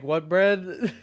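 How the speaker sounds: puzzled clerk asking back, pitch up; mock confused clerk. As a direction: play the baffled sandwich worker. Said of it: "And they're like".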